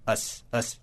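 "Us" as a short, soft "uhs"; isolated ending. Shown as a demonstration. Teacher isolating the end of dangerous, soft short "Us". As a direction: drop softly to model the reduced "Us". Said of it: "a gente fala dangerous".

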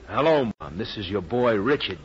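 mock phone call home to Mom; glib, put-on proud son. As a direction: play a breezy pretend call, lifting the voice. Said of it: "Very glib, very glib".

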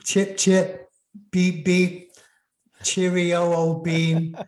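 English host signing off to fans in a mock posh English accent. A lightly put-on old-fashioned English accent, tossed off as a joke. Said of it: "I'm trying to put on my English accent".

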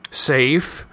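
high, rising echo of disbelief. A narrator's reading. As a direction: raise your voice on the repeated word. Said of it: "Jeremy's voice rose".

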